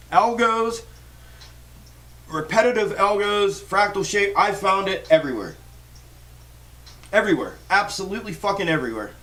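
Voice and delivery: emphatic, worked-up rant in punched fragments; fired-up rant. Real, not acted. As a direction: hammer each point home, fired up. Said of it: "I'm on a fucking rant".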